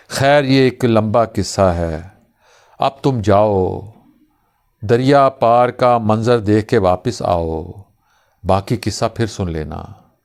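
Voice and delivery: slow, measured verse with long pauses; unhurried poetic close, settling at the end; poem recitation. Acted. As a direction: recite slowly, letting each phrase hang.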